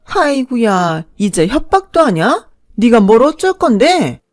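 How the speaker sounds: slow sneering sigh into taunts; mocking mother-in-law. Mother-in-law taunting the wife's threat with a sneer. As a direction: scoff at her threat.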